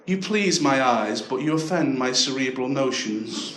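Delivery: slow, measured middle-class phone voice, lightly mocked; a hint of slow, precise middle-class speech; middle-class breakup. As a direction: lightly imitate someone splitting up very formally. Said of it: "the most middle-class breakup you've ever heard".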